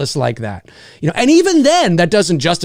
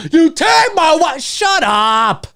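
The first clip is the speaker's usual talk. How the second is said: mocking Will; 10 semitones higher, much slower than usual. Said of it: "mocking Will's line".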